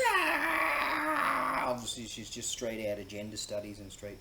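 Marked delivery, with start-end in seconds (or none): 0.1-1.6 long, very high mock scream; imitated outraged screech. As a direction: screech like the offended woman, hammed-up. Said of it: "this Irish bird goes".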